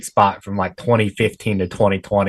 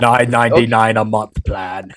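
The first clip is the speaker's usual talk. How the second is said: hammed-up celebrity ad read; mock TV pitchman. Host spoofing a celebrity insurance ad, mock pitchman voice. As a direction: sell it like an aging action star in an ad. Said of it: "he's gonna be selling, like, reverse mortgages".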